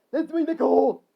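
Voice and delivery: high, loud claim; yell. Acted. Harry claiming the nickel, high yell. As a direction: yell it, stretching the last word. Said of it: "Harry instantly yelled".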